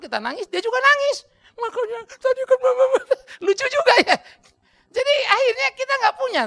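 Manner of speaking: high loud laughing speech; laughing while talking. Real, not acted. Preacher laughing recalling crying mother, high laughing speech. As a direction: speak through laughter.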